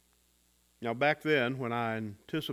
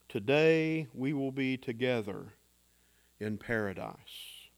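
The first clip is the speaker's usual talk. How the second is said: calm assurance; 3 semitones lower than usual. Acted. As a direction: promise it with calm certainty. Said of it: "the voice of calm assurance".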